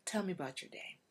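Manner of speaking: soft, breathy, soothing husband; loving partner murmuring a consolation; tender hushed comfort. Pretend. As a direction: comfort her gently, almost a whisper. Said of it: "hold us, and say".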